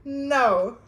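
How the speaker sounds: high, loud "oh no"; mock alarm. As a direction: squeal it in mock horror. Reacting to scary remark.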